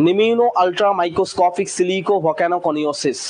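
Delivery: "নিম্ন ultra microscopic silico volcano coniosis" said very slowly in one run; slow careful model reading; slow full read. Shown as a demonstration. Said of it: "স্পিডে যদি বলি".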